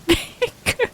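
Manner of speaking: playful high-pitched copy; mock echo. Echoing the companion's line.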